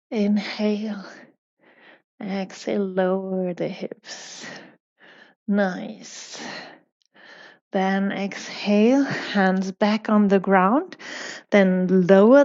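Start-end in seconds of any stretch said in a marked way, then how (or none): 0.1-6.4 soft, near-whispered yoga instruction; hushed breathing cues. Real, not acted. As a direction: guide the breath very quietly, leaving long pauses. Guiding breath in held lunge.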